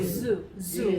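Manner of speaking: zoo with a long buzzing z. Shown as a demonstration. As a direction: start zoo with a bee-like hum. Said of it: "이렇게 발음해야 돼요". (벌처럼 울리는 Z로 zoo)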